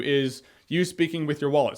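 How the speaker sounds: usual speaking voice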